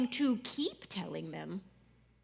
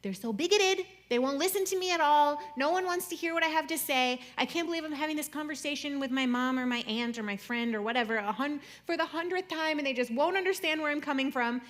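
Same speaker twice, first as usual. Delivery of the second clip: raised, indignant mock complaint to friends; exasperated venting; 4 semitones higher, 5 dB louder than usual. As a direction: act out griping to a friend, loud and worked up. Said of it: "go to our friends and be like".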